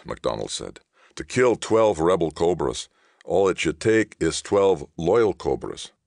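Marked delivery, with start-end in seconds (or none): 1.1-5.9 forceful insistence. Acted. MacDonald insisting loudly.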